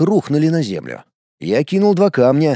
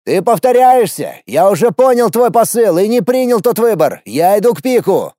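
shout at the sky; 7 semitones higher, 5 dB louder than usual. A narrator's reading. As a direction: yell up at the heavens. Shouting at the system.

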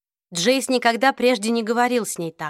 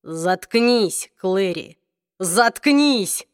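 sudden fury; much slower than usual. Acted. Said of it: "с внезапной поразительной злобой".

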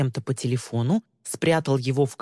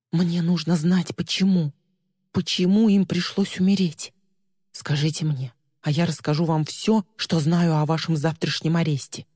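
fluttering cries for help; 2 semitones higher than usual. Acted. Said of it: "дрожащим голосом взмолилась Ли".

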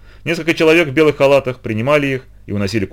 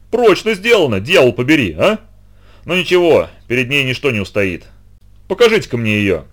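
boisterous admiral; 3 semitones higher than usual. Acted. Admiral boasts loudly.

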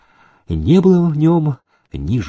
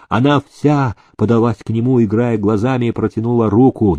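usual speaking voice

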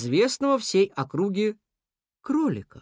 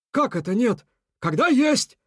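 higher, assured retort; confident; 7 semitones higher, 3 dB louder than usual. A narrator's reading. Beaver contradicting the rat, confident. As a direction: insist with certainty. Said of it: "сказал Бобёр уверенно".

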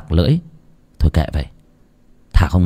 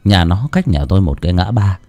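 steady storyteller's narration; story narration. A narrator's reading. Narrator opening a ghost story to listeners, calm storytelling. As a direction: tell the village ghost tale evenly.

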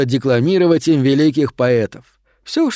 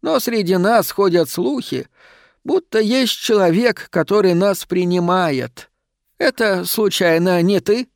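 high-voiced shadow asking hopefully; timid pleading shadow, hopeful; 7 semitones higher than usual. A narrator's reading. Shadow asks whether she takes shadows in, high and tentative.

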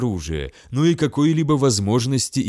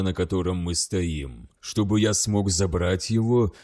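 grim sorcerer; 4 semitones lower, 3 dB quieter than usual. Acted. Sorcerer commanding the demon.

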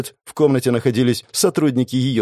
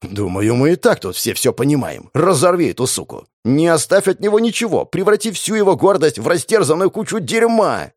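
screaming angel; 7 semitones higher than usual. Acted. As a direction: whip up into a vengeful wail. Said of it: "завопил ангел".

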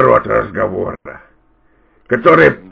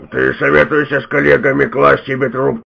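usual speaking voice

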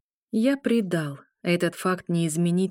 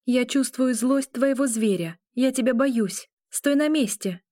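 hysterical notes; 6 semitones higher than usual. A narrator's reading. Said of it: "с истеричными нотками в голосе".

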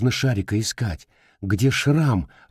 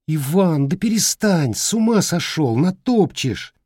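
mock scolding; 8 semitones higher than usual. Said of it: "сердилась понарошку мама".

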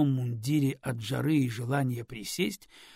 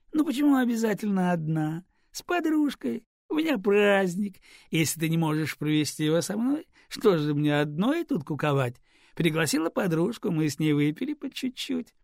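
higher, louder, playful tipsy voice; tipsy cheerful woman; 6 semitones higher, 5 dB louder than usual. Acted. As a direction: brush it off gaily, a little tipsy. Подвыпившая Лиза весело оправдывается. (весело, слегка подвыпившая)

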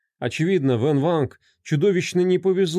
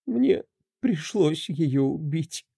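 tearful confession; 4 semitones higher, slower than usual. Acted. Emma finally confesses the murder, slow and tearful. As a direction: let the admission fall out slowly. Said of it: "наконец-то призналась Эмма Кларк".

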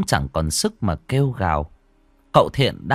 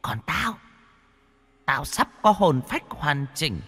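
put-on much higher, excited taunting child ghost; gleeful ghost girl; 13 semitones higher, 4 dB quieter than usual. Ghost girl gloats to dying Đoàn, high and gleeful. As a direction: crow over a dying man. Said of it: "Giọng nói của nó đầy hưng phấn".

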